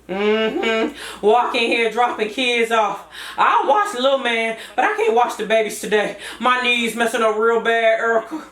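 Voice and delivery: put-on older, rougher mama voice; grumpy older mama refusing to babysit; Mom. Mama complaining to Erica about watching the babies. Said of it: "I'm making myself sound older".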